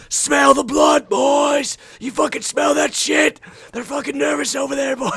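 loud, high rallying shout to teammates; reenacted yelling. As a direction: fire up the team at full volume. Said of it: "I just kept yelling".

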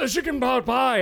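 high, loud, mock European chef accent; hammed-up fancy chef accent; faux European accent. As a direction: belt it out like a pompous chef. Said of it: "where it's just like".

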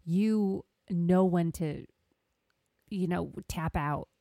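playfully mock an Irish fighter badly; terrible Irish accent. Host lectures fighter in a bad Irish accent. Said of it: "That is a terrible Irish accent".

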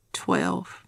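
barely a breath of voice; airy, breathless and weak; breathless whisper. Real, not acted. Short of breath, breathing trouble.

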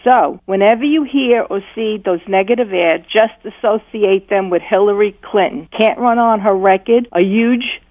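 measured pitch of a political ad; campaign ad voiceover. Shown as a demonstration. Caller pitching the host an ad for Trump, voiceover style. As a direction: read it like a campaign spot, landing each slogan. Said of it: "you should do voiceover".

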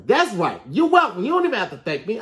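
cocky host. Pretend. Boastful ad host.

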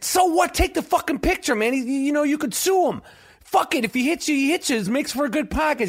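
high-pitched, insistent pushing; exasperated urging. Retold or imitated. Pushing his friend to snap the photo, exasperated and high. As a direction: egg him on, voice up high.

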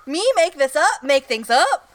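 feigned innocent disbelief; playfully affronted questioning; mock indignation. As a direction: act shocked at the accusation. Feigning shock at being accused.

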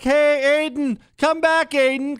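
put-on a mom calling her runaway kid back; mom yelling. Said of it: "what she'd be yelling".

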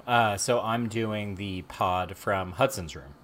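slow, drawn-out California surfer; easy-going sixties surfer drawl; laid-back surfer voice. Real, not acted. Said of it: "Why do I sound like a surfer".

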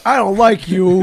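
slow, drawn-out mimicry; mock bartender rebuke. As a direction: playfully stretch out each word as the bartender.

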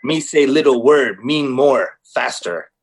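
lightly voiced dim office worker, slow and clipped words; half-hearted caveman-simple grammar, dragged out; Kevin from The Office. Riffing on a friend's Kevin remark, a lightly imitated Kevin. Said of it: "Why do you sound like Kevin from The Office?".

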